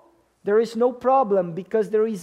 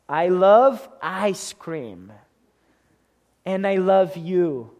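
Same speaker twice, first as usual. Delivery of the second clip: passionate love declaration; 3 semitones lower than usual. Shown as a demonstration. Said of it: "We use the same word, the same emphasis, the same passion".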